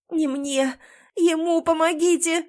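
injured wife shouting at rescuers to save her husband. A narrator's reading. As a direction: push the rescuers to him. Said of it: "кричу громче".

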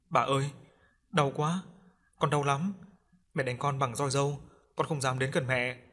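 a hint of a whimpering little ghost; pleading ghost child. Ghost child begs grandmother for help, lightly pleading.

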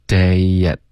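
"Day at" joined by a very light "ye" glide; linked with light y. Shown as a demonstration. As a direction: slide "Day" into "at" as day-yet. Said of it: "day跟at要添加一个很轻的耶的音".

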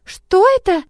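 put-on high, loud child's gasp of wonder; gasping girl. A narrator's reading. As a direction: gasp it out like an amazed little girl. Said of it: "ахнула Амилота".

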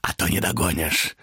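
shout, hurrying him on; high urgent demon. Acted. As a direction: demon hurries Thomas after peddler. Demon urging.

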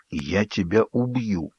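slow, hushed, hoarse "я тебя убью"; hoarse with hatred. A narrator's reading. Jacob threatens Edward in a voice hoarse with hate. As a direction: rasp it through hatred. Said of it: "севшим от ненависти голосом прохрипел Джейкоб".

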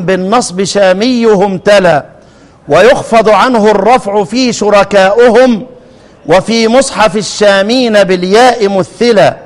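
slow, measured recital of rhymed verse; didactic verse recitation. Acted. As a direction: recite the poem slowly, in steady metre. (إلقاء متأنٍّ لمنظومة تعليمية)

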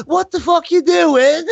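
high, loud, slow mock yell; retold shout. Host retells yelling at Jamie, slow loud mock yell. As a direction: stretch it out like a shocked yell. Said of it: "and I said".

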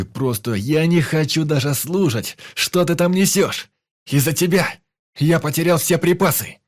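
blaming the friend for the lost supplies, shouting; raging shout. Acted. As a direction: let the fury spill over. Hero keeps yelling at friend.

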